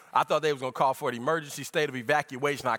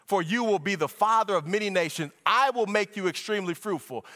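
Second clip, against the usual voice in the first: driving, raised preaching voice; fervent preaching; 6 semitones higher, 4 dB louder than usual. Acted. Preacher unfolding scripture to church, fervent preaching. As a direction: preach it with steady momentum. Preacher expounds the covenant passage.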